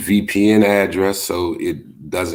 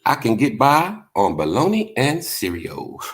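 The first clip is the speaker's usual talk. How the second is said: quoting Theo; 7 semitones higher than usual. Retold or imitated. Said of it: "what Theo say on the Cosby Show".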